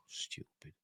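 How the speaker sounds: breathy whispered scoff under the breath; a barely voiced judgement on the honourable heroes; whispered aside. Real, not acted. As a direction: whisper it dismissively to yourself.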